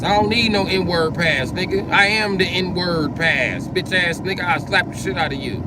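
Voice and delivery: high, drawn-out angry insistence; indignant boast. Real, not acted. Man insisting he needs no pass, indignant and high-pitched. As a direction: stretch the words out high with outrage.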